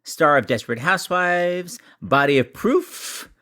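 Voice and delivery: drawn-out announcer build-up, swooping up to the name; show host introduction. Acted. Host introducing the Emmy-winning guest, drawn-out announcer style. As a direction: stretch each credit like a grand announcer.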